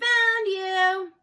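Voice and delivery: loud, high triumphant yell; triumphant shout. A narrator's reading.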